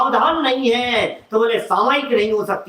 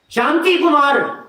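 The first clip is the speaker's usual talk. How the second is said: irritated repeat; 4 semitones higher, slower than usual. Shown as a demonstration. Man asked his name again, answering irritably. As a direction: snap the name out, fed up. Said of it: "तो थोड़ा तेजी में बोलता है".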